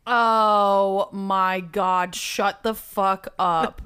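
stretched-out, slow amazement; slow disbelief. Real, not acted. Hearing the wedding story, slowly disbelieving. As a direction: draw out the disbelief.

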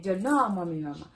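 playful angry outburst; mock angry shout. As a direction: bark it out in pretend anger. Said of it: "So I say".

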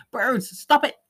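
high, loud pretend yell at the birds; mock yell. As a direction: shout them off, half laughing. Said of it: "Am I gonna yell out".

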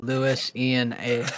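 "Lewis, Ian, A." as three separate spoken pieces; spelling mnemonic. Shown as a demonstration. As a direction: split Louisiana into "Lewis, Ian, A.". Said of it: "for Louisiana, I just remembered".

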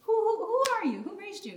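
high, indignant mock scolding of a daughter; stern mom scolding. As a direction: playfully scold a sassy kid like an offended mom. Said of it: "and then I'm like".

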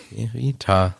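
Verita with TA set apart and stressed; stress on third syllable. Shown as a demonstration. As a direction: sound out Verita, landing on TA. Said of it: "auf der dritten Silbe hab".

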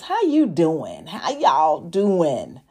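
lightly imitated catchphrase, slow and drawn out; Wendy Williams. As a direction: stretch out the greeting like a talk-show catchphrase. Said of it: "from the famous words of Wendy Williams".

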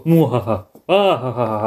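Doctor Evil laugh. Retold or imitated. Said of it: "done the Doctor Evil".

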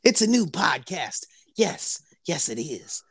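breathy hype whisper. Acted. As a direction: whisper it like a secret.

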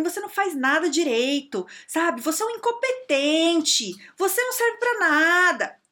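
mais agudo e mais alto, arrastando o final; chefe humilhando. Retold or imitated. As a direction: despeje o desprezo sem parar. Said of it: "ele fala assim". (imitando o chefe que chama de incompetente)

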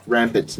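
"rampant" with the m sounded; careful "rampant", not "rapid"; pron. Shown as a demonstration. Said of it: "not rapid".

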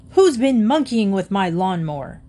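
a loud angry shout from the garage. A narrator's reading. Husband shouting at the family from the garage. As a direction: yell it across the yard. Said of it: "shouted Mister Phillips".

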